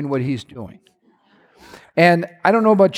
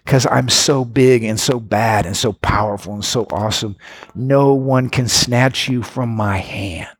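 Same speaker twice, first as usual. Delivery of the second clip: deep, unhurried John Wayne-style assurance; power talk; 7 semitones lower than usual. Acted. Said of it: "This is power talk. This is like John Wayne".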